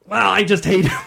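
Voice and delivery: laughing player quote. Retold or imitated.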